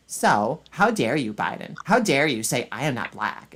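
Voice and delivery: mock imitation of a woman, lightly put-on. Mocking woman claiming to be black, lightly put-on. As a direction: lightly parody the way they talk. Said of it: "they talk like this".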